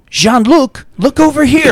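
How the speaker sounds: high, loud, sing-song coaxing; coaxing dad. Retold or imitated. Dad calls Jean-Luc to look at the camera, high and loud. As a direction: call out sweetly like a doting father. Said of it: "and he goes".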